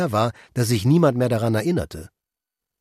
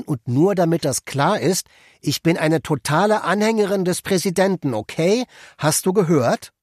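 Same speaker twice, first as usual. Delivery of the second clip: pointed loyalty declaration; 5 semitones higher than usual. Acted. Wife loudly declares loyalty, tapped line.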